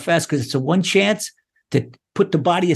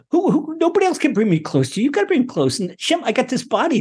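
raised-pitch appeal to God; pleading prayer; 5 semitones higher, faster than usual. Shown as a demonstration. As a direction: plead as a child to a father. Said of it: "You, you talk to Hashem".

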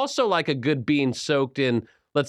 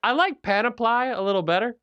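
jolly Santa voice; 11 semitones higher than usual. Acted.

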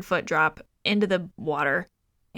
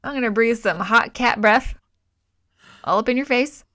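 higher, louder mock menace from a cartoon cat; hammed-up cat threat; 4 semitones higher, 5 dB louder than usual. Mocking the movie's cat breathing on her, loud and higher. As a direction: ham up the cat's silly threat. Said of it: "main kitty cat is like".

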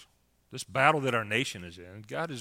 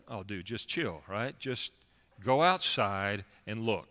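laid-back, casual reassurance; imitated calm; slower than usual. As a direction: play the unbothered prophet, lightly easygoing. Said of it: "is very calm in this moment".

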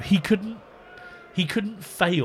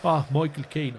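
put-on Northern Irish accent. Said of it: "I have to say it in a Northern Irish accent".

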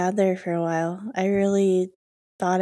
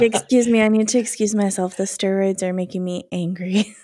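laughing. Pretend. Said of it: "I'm like".

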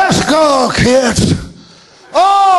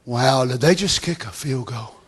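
mock fan awe; 12 semitones lower, 10 dB quieter than usual. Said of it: "And say".

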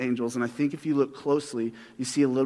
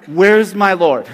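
Mary calling out; 3 semitones higher, 10 dB louder, slower than usual. Retold or imitated. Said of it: "and she's like".

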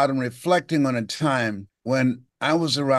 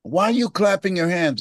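higher child's question, lightly voiced; boy asking; 6 semitones higher than usual. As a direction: ask like a curious ten-year-old. Boy asking his mother.

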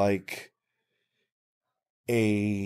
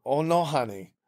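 slightly higher-pitched, bossy effeminate lilt; bossy effeminate man; 4 semitones higher than usual. Retold or imitated. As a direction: lightly imitate a bossy, effeminate business partner. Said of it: "bossy, effeminate way".

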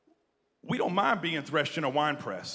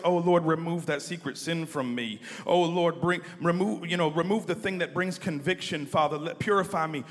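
mock pious prayer; 2 semitones higher, 3 dB louder than usual. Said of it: "we pray prayers like this".

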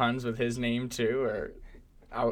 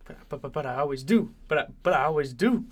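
mock Italian accent. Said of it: "My Italian was, like, a little bit mixed".

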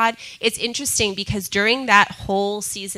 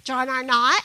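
puzzled question; 3 semitones higher than usual. Retold or imitated. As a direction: echo "John R. Mott" back as if you've never heard it. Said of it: "And she's like".

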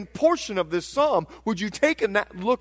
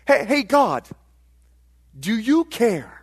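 louder, mildly challenging call to God; psalmists' questioning; 2 semitones higher, 5 dB louder than usual. Acted. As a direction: call out to get God's attention. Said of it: "Here's what they're asking".

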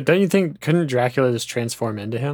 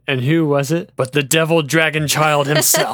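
louder, theatrical storyteller reveal; dramatic reveal; 4 dB louder than usual. Shown as a demonstration. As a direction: declaim it like a big plot twist. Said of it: "you should have said".

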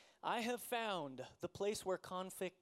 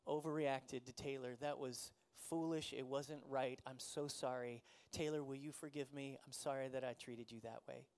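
sincere apology; 7 semitones lower than usual. Retold or imitated. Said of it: "I said".

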